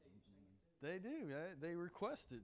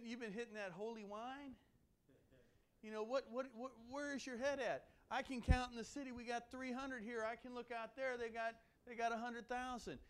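mock disbelief, pitched a bit higher; incredulous servant; 4 semitones higher than usual. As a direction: play the doubting servant teasing the prophet. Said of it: "the servant is sitting there going".

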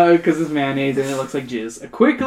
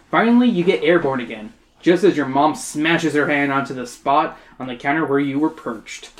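measured audiobook-style narration; story narration. A narrator's reading. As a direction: read it out as a story.

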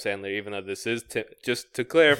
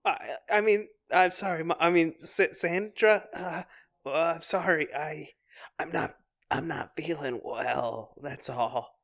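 put-on lightly higher, nervous boy voice; boy backpedalling to his mom; flustered little boy; 4 semitones higher, 4 dB quieter than usual. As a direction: stammer an apology as a kid. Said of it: "little boy Tim".

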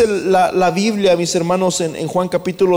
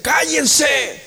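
high, forceful command to be silent; sharp raised-pitch order; rebuking shout; 8 semitones higher than usual. Acted. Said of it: "les reprendía mucho".

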